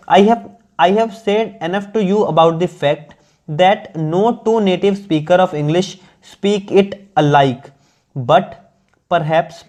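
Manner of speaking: slow, measured English read-aloud; deliberate dictation-like reading; careful text reading. Acted. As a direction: read it out slowly, phrase by phrase.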